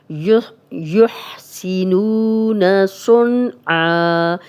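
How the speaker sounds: whispered practice recitation. Shown as a demonstration. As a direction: breathe the phrase under the voice.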